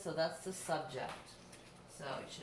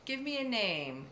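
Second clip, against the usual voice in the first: higher, louder mom asking for a name; playing mom; 6 semitones higher, 4 dB louder, slower than usual. Teacher pretending to be mom, higher and brighter. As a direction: voice the mom asking her kid. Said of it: "So if I were your mom".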